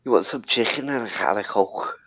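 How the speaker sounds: soft Scouse demo; quiet Liverpool accent demo. Shown as a demonstration. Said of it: "That's Scouse".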